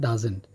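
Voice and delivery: ডাজেন্ট contracted, not split into does not; pronounced ডাজেন্ট. Shown as a demonstration. Teacher showing how doesn't is read, ডাজেন্ট as "dazent". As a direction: say ডাজেন্ট as one word, "da-zent". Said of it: "উচ্চারণ তো হবে".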